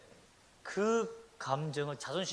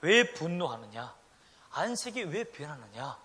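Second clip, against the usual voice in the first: loving words; 4 semitones lower than usual. Acted. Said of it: "사랑스러운 말로 얘기할 수 있었다는".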